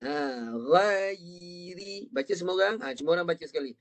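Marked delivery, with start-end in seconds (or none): 0.6-2.1 "Ghairi" drawn out, y held before ri; tongue up, then down. Shown as a demonstration. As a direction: hold the y in "Ghairi", then drop to ri. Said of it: "Baru ri".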